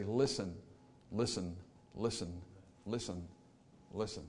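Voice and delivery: a quiet plea that fades away; fading gentle call. Retold or imitated. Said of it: "God to say".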